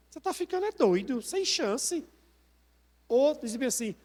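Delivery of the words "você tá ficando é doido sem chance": high, quick dismissive jeer; mocking scoffer. Preacher voices people deriding a believer, mocking and dismissive. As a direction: brush them off in a raised, derisive pitch. Voicing mockers of someone's faith.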